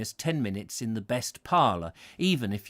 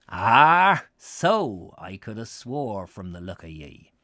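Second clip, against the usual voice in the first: lightly voiced old West Country pedlar, friendly; a wandering old pedlar greeting a stranger on the road; 2 semitones higher, 5 dB louder than usual.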